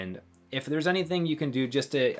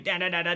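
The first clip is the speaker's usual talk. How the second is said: engine revving imitation; 7 semitones higher, faster than usual. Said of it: "in the car engine where it's going".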